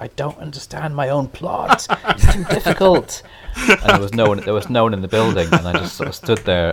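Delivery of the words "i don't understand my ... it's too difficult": very loud, very high, drawn-out shout. Recalling being alone while typing a first draft, retelling a loud shout. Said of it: "I shouted like really loud".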